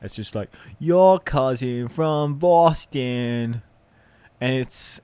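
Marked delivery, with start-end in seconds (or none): 0.8-3.6 put-on slow, drawn-out Boston accent. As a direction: imitate the Boston beer ad on the radio. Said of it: "this adult that always plays on the radio for this Boston Lager".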